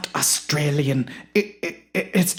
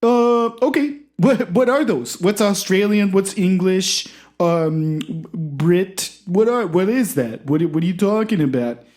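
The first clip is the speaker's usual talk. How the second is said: much higher and louder, welcoming; high eager host voice; 4 semitones higher, 4 dB louder than usual. Acted. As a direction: usher the guest in brightly.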